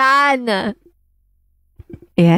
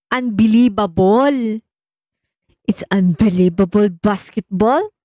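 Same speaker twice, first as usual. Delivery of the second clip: Filipino accent, "Unbelievable" as "anbili-babol" with a B. Shown as a demonstration. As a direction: turn the V in "unbelievable" into B. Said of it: "We all know Filipino accent".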